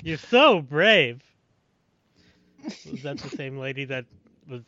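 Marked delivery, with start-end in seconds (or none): 0.0-1.2 drawn-out, louder mock praise; slow movie quote. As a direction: stretch each word like the film. Quoting a movie line.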